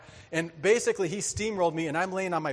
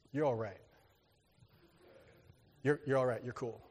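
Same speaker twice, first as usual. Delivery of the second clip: grudging respect; 5 semitones lower, 7 dB quieter than usual. Retold or imitated.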